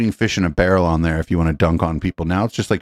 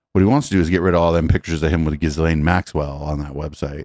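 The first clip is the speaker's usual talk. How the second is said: ordinary talk, nothing marked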